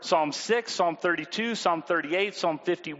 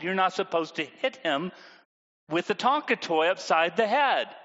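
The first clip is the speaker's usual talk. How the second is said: patient parent voice. Retold or imitated. Parent calmly scolding Tommy and Sarah after the fight.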